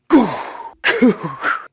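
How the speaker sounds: loud, high burst of a thud; imitated impact noise. Wrestler mimicking the garbage can hitting him, sudden and loud. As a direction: mimic a sudden crashing blow.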